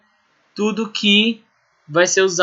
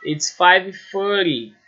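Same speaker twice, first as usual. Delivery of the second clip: slow example; slower than usual. Shown as a demonstration. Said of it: "Por exemplo".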